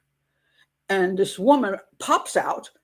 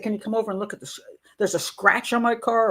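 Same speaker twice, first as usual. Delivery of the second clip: pleasant request. Retold or imitated. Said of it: "if she had been pleasant and said".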